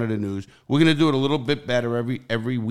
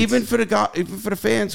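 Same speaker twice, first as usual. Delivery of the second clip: much higher, eager push; excited; 11 semitones higher than usual. Real, not acted. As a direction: pitch jumps up with enthusiasm. Excited about fan perks.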